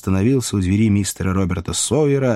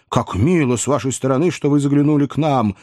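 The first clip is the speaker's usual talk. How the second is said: gushing, higher-pitched nephew; effusive welcome; 6 semitones higher than usual. A narrator's reading. Tipsy nephew introducing his friend to aunt, effusive. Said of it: "с изъявлениями радости и любви".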